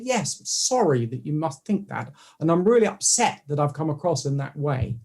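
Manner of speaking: measured, placating apology; cushioning the blow. Retold or imitated. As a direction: soften the blow with a careful apology. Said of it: "how to cushion a blow".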